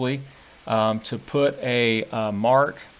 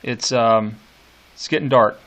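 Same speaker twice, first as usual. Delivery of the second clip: paraphrased nurse; 6 dB louder than usual. Retold or imitated. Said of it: "And saying".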